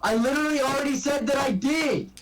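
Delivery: exasperated. Real, not acted. Exasperated protest.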